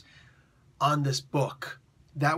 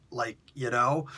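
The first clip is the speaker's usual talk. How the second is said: put-on Valley Girl; 4 semitones lower than usual. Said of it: "talked like a Valley Girl".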